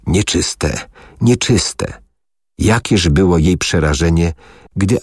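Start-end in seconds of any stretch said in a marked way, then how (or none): 0.1-0.9 dry hoarse cry. Acted. Leper woman warning off a stranger, in a dry rasp. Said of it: "zawołała oschłym, chrapliwym głosem". 1.2-2.0 higher, dry rasping shout of the warning; dry hoarse cry. Acted. Leper woman warning off a stranger, with a higher hoarse cry. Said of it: "zawołała oschłym, chrapliwym głosem".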